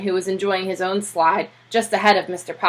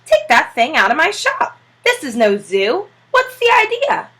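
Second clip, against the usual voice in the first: higher, indignant barber voice rising to a squeal; annoyed barber; 7 semitones higher, 4 dB louder than usual. Acted. Barber ordering Mister Popper out, high indignant. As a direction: get that bird out of here, barber outraged.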